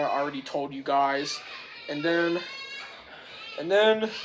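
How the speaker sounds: normal talking voice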